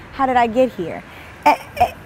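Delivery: hammed-up whimper rising into a squeak; mock crying. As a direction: fake a sob over your own bad luck. Despairing over ugly ex.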